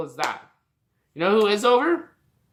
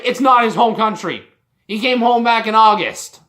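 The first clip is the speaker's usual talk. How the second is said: loud, indignant correction; heated rebuttal; 2 semitones higher, 5 dB louder than usual. Real, not acted. Fan correcting the home country claim, heated. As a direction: snap back at the false claim. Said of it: "I'm sorry I'm getting so heated".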